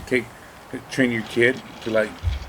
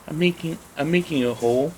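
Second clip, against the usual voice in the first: put-on little girl; 6 semitones higher than usual. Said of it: "there's a little girl".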